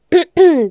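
staged ahem before a name drop; deliberate ahem; pointed throat-clearing. Acted. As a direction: clear your throat as a cue. Mimics cue before a name drop.

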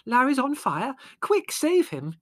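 very high, frantic plea; screaming. A narrator's reading. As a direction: scream for help to save your son. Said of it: "she screamed".

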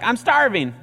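put-on high, loud whine of a hungry kid; whiny kid. Kid whining from the back seat of the car. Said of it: "Just in that voice".

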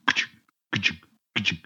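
soft mechanical chunking; imitated gear clunk. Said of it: "gear, and it's".

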